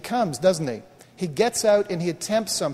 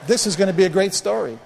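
raised, more forceful delivery of the quote; emphatic retold message; 4 dB louder than usual. Pastor repeating God's words to congregation, emphatic. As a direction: proclaim the quoted promise to the room. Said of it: "That's why I keep telling the story".

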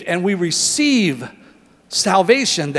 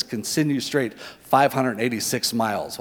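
GPS voice; 5 semitones lower, 4 dB quieter than usual. Retold or imitated. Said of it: "on my G P S when it says".

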